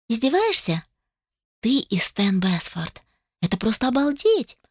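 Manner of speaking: put-on high, breathless girlish amazement; squealing cousin, amazed at the gossip; gasping amazement. A narrator's reading. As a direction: gasp it out, thrilled. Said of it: "ахнула девятнадцатилетняя Айра".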